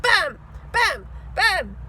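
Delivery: loud punchy Bam each time. A narrator's reading. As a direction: hit each Bam hard. Three dogs hit him.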